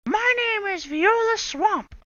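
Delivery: high, loud, slow witchy rasp; scratchy voice. Acted. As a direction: announce yourself like a scary witch. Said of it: "said the lady in a scratchy voice".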